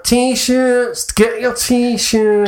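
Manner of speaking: high, very slow Northern English hawker; Northern English accent, calling out T-shirts. Retold or imitated. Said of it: "they'd always be Northern".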